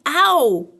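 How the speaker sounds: loud, drawn-out "ow"; cry of pain. A narrator's reading. Pooh stuck in the honey jar, pained yelp. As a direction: yelp as if bumped.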